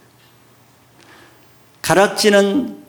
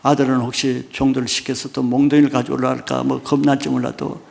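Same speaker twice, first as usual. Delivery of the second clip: ordinary talk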